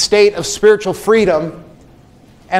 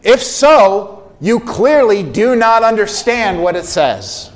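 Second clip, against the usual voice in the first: higher, louder exasperated rebuke; incredulous, louder scolding from the pulpit; reprimanding Paul; 5 semitones higher, 4 dB louder than usual. Retold or imitated. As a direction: scold them for never reading it. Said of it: "Paul saying something like this".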